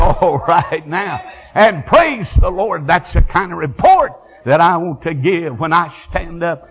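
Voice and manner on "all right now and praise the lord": joyful praise. Real, not acted. Preacher exulting in praise.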